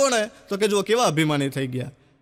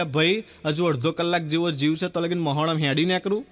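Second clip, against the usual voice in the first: put-on laughing old man; 6 semitones lower than usual. Dying old man speaks up.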